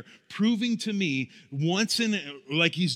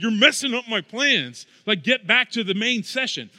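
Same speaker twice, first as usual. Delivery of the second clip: mild mock anger; 3 semitones higher, 4 dB louder than usual. Retelling scolding wife and leader at camp, mildly annoyed. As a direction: scold the leaders half-seriously. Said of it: "And I got mad at them".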